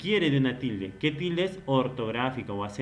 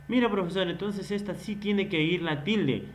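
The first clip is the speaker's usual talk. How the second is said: lightly voiced student, pitched higher; student's objection; 5 semitones higher than usual. Student telling the teacher this word needs an accent, lightly voiced objection. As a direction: put a hint of an eager-to-check pupil in it, higher.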